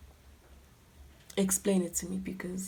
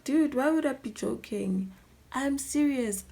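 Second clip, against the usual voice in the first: exasperated; 5 semitones higher, 3 dB louder than usual. Retold or imitated. Acted exasperated boyfriend on phone.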